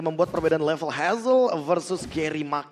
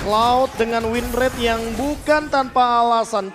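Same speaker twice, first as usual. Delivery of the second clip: esports caster; 5 semitones higher, 5 dB louder than usual. Real, not acted. Caster hyping Lord fight.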